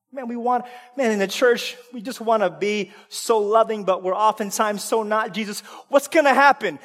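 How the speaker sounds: normal talking voice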